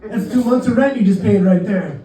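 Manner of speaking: high, lively ribbing of a sucker; amused vendor. Retold or imitated. Vendor mocks overpaying tourist, amused. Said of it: "First guy starts laughing".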